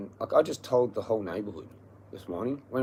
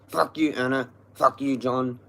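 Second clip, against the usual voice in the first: angry shout; 3 semitones higher, 6 dB louder than usual. Real, not acted. Ranting at landlords alone on camera.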